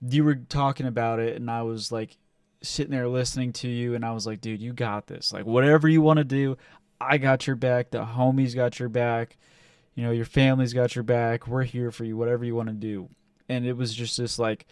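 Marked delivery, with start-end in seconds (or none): 4.4-13.1 reassuring support. Retold or imitated. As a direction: back him up gently. Reassuring friend heart-to-heart.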